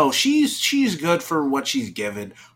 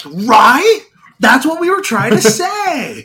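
imitating the writers; 9 semitones higher, 9 dB louder than usual. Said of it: "they're like".

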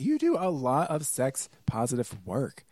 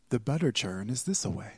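Colonial Williamsburg accent. Shown as a demonstration. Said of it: "I can do a Colonial Williamsburg accent".

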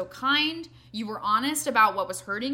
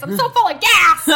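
loud laughing shout; laughing loudly; 10 semitones higher, 15 dB louder than usual. Real, not acted. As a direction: belt it out laughing. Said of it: "You and I have that in common".

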